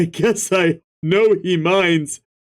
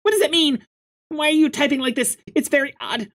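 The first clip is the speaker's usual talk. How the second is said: put-on much higher, fast, puzzled girl; 10 semitones higher, much faster than usual. Friend asks why he types like this, high and puzzled. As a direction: squeak out the confusion.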